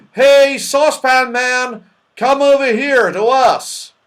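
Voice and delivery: high, drawn-out long-distance shout; loud calling. A narrator's reading. Moonface summons distant Saucepan Man, shouting high. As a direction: holler across a field.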